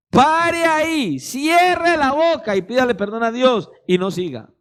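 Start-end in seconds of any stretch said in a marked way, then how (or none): 0.1-1.2 slow, drawn-out firm command; stern stop. Acted. Preacher ordering the gossiping member to stop, slow and firm. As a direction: halt them mid-sentence, slowly.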